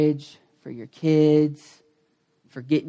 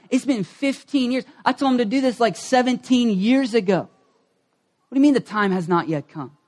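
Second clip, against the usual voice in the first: a little upset; 6 semitones higher than usual. Retold or imitated. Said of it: "He's a little upset".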